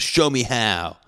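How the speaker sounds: the nerd trying to sound tough; nerdy teacher retort. Retold or imitated. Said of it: "in nerd fashion".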